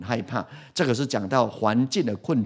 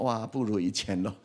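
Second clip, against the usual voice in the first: wife's complaint; 7 dB quieter than usual. Retold or imitated. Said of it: "师母都跟我讲".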